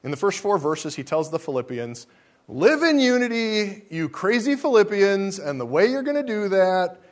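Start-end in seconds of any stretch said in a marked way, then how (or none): 2.5-7.0 high, loud, emphatic apostle's command; Paul exhorting loudly. Pretend. Preacher paraphrasing Paul to the Philippians, loud exhortation. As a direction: call it out like Paul scolding his church. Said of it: "this is my paraphrase".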